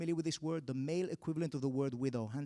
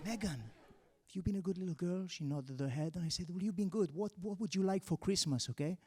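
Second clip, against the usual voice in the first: soft Santa; 6 dB quieter than usual. Retold or imitated. Santa softly to the girl.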